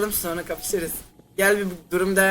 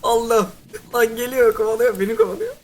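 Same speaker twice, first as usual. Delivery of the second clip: panicked cry, louder and higher; frantic yelp while fleeing; being chased; 4 semitones higher, 3 dB louder than usual. Real, not acted. Being chased by monster in game.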